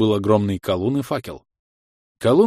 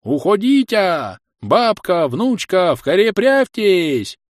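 put-on loud, high old man's frantic orders; grandpa yelling; 9 semitones higher, 6 dB louder, slower than usual. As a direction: shout them into hiding. Grandpa yelling during fight.

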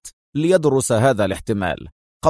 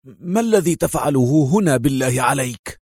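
angry indignation. Acted. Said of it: "في مزيج من الغضب والاستنكار".

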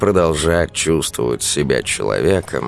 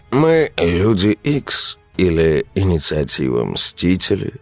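innocent; 3 semitones higher than usual. Acted. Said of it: "с невинным лицом уточнил Александр".

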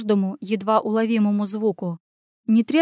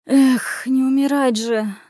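sighing resignation; 4 semitones higher, 3 dB louder, slower than usual. Acted. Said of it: "вздохнула Анюта".

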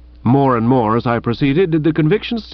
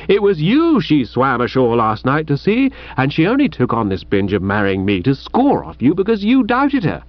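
scoffing retort; 4 semitones higher than usual. Acted. Bertie's ha-ing retort, high pitch.

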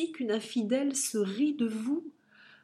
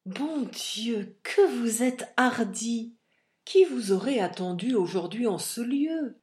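voix de Manon; 3 semitones higher, 4 dB louder, slower than usual. Acted. Manon surprise, voix de personnage.

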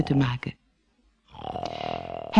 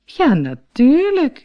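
matter-of-course; 9 semitones higher, 4 dB louder, slower than usual. Acted. Pony states the obvious.

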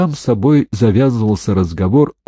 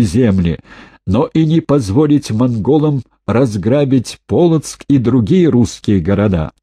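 measured rallying call to troops, slightly raised; loud, deliberate address; 3 semitones higher than usual. Acted. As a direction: project each word across the field, unhurried. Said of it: "раздельно громко, чтобы слышно было как можно дальше".

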